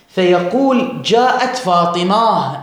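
slow, فاطمة ending in a breathy h as fatimah; Arabic ha ending, slow demo; pausal h ending, slow. Shown as a demonstration. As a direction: show the h stop, drawn out. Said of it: "أي يبدل التاء هاء".

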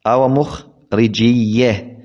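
slow teaching repeat of "مخرجية", geminated ya at the end; merged doubled ya. Shown as a demonstration. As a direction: slowly sound out "مخرجية" with a doubled y plus short a. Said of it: "ثم فتحت الياء الثانية للتخفيف".

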